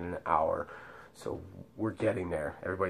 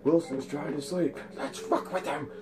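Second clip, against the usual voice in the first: high, put-on teasing voice; mocking bunkmate voice; 8 semitones higher than usual. Bunkmates plotting to bother him, high mocking voice. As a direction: pitch it up like a gleeful prankster.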